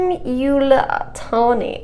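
slowly sounding out a hard French word; halting, drawn-out attempt at French; struggling to pronounce. Real, not acted. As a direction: feel your way through it syllable by syllable. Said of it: "I can't say this one".

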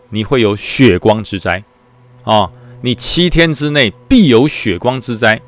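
slow, grave prophecy voice; ominous fortune teller. Retold or imitated. Temple keeper warns the young soldier, slow and ominous. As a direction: drag out every doom-laden word.

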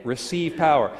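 "Receive power" punched firmly; firm emphatic stress on "Receive power"; hit the words. Shown as a demonstration. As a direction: land hard on both "Receive" and "power". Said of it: "really hit".

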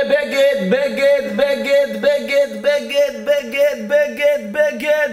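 high, rhythmic one-word chant; repetitive undressing. Acted. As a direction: repeat mechanically on a high pitch. Miming undressing garment by garment. (חזרה קצבית בקול גבוה)

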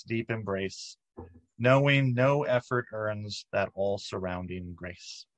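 measured, deliberate poetry reading; poem reading. Acted. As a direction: read the poem slowly and clearly, line by line. Reads a poem aloud.

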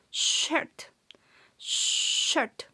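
"shirt" whispered with a long sh; whispered model word. Shown as a demonstration. Teacher whispering the word for students to copy. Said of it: "dejando salir un poquito de aire".

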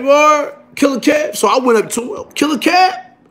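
high-pitched incredulous question. Retold or imitated. Inmate echoing a boast in the bullpen, incredulous. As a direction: act out a disbelieving challenge. Acts out his startled reply.

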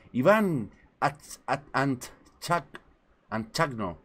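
slow, halting attempts at Antchagno; stumbling over a viewer's name; struggling with a name. Real, not acted. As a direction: sound out Antchagno syllable by syllable. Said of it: "todavía no se pronuncian bien".

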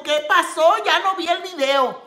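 a hint of a nagging mother; imitating her mother. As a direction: whine like mom asking where the video went.

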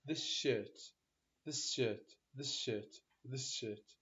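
"this shirt" said as "thishirt", s merged into sh; s becomes sh. Shown as a demonstration. Teacher demonstrating to class "this shirt" as "thishirt". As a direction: blend the s of "this" into the sh of "shirt". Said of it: "ايشين اثنين".

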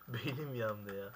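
slow complaint broken by laughter; laughing. Real, not acted. Gamer laughing at his own failure, saying it slowly.

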